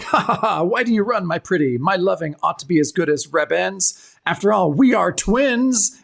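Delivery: villain twin. Retold or imitated. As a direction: gloat like a cartoon villain as she runs. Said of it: "he's like".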